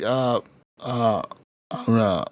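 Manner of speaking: low, halting mock stammer; acted hesitation. Player asked who he is by bandits, acting hesitant. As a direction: act stuck for an answer, voice dropping.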